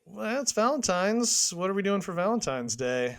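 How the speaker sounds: a touch of glum reluctance; mopey and sad. Real, not acted. Raising Valentine's Day with co-host, mopey and sad. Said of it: "you sound really mopey and sad".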